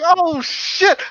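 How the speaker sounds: high, loud mock panic; retold scream. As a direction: re-enact a startled group shriek. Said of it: "So we all screamed".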